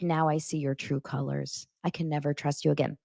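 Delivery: low, quiet and fast; a hint of wounded drama; mock cold Rob. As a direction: mutter it coldly, quickly. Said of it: "he's like".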